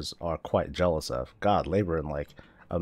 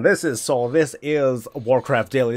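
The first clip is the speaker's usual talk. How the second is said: show intro; 3 semitones higher, 5 dB louder than usual. Real, not acted.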